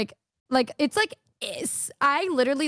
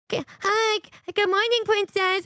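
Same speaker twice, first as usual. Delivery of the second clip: sweet usual greeting; 8 semitones higher, slower than usual. Retold or imitated. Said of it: "just not in my normal".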